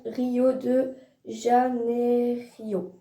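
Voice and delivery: slow, careful French-accented Rio de Janeiro; tentative French-accented foreign name; unsure foreign accent. Real, not acted. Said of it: "désolée pour mon accent, si c'est anglais".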